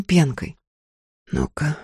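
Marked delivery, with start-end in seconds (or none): 1.3-1.8 rasped whisper, barely voiced; urgent hoarse whispered command to hungry kids. A narrator's reading. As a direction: hiss the order hoarsely under your breath. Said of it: "хриплым шёпотом велела".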